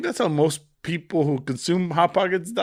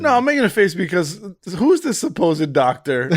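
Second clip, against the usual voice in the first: raised, incredulous challenge; mock indignation; 4 semitones higher, 4 dB louder than usual. Real, not acted. Co-host doubting the friend's so-called doctor, mock indignant. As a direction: question it with higher pitch and comic outrage.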